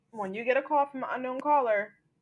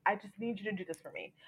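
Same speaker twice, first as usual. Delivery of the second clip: hastiger Flüsterton; whisper; 7 dB quieter, faster than usual. Retold or imitated. June urgently whispering to Luke.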